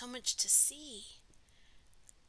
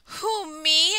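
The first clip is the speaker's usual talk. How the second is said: higher, loud storybook exclamation; exclaiming; 5 semitones higher, 15 dB louder than usual. Acted. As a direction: exclaim it as a little pollywog. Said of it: "exclaimed the pollywog".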